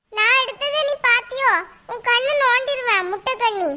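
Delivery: put-on high little-kid voice, scolding; quarrelsome child. Accused pupil threatens the classmate who told on her, quarrelsome child voice. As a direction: bicker like an indignant schoolgirl.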